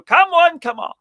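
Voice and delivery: loud, high barker's call; carnival barker. Acted. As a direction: call out to passing shoppers like a barker. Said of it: "be like a carnival barker".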